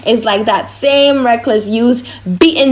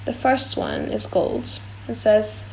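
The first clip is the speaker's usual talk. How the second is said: hushed; 8 dB quieter, slower than usual. Acted. Portia reads caskets hushed.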